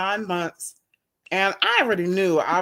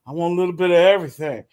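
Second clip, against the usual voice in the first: laughing quote; 2 semitones lower, 5 dB louder, faster than usual. Retold or imitated. Quoting birthday man's request.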